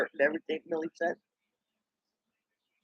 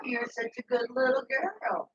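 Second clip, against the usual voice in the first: soft whispered coo; 8 semitones higher, 6 dB quieter than usual. Real, not acted. Whispering praise to the little girl.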